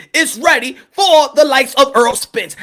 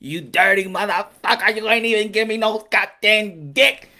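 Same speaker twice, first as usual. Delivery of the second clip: acted scolding; 4 semitones lower, 4 dB quieter than usual. Acted girlfriend scolds him.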